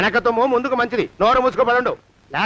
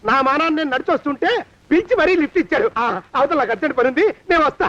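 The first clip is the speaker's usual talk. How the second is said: panicky; 5 semitones higher than usual. Acted. Master panics, disowns servant.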